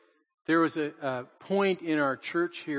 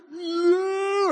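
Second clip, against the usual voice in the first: high, loud cry of no; alarmed cry; 13 semitones higher, 4 dB louder than usual. Retold or imitated. Grandpa crying out to grandson amid ceramic shards, high and loud. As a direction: yell it in panic, reaching out.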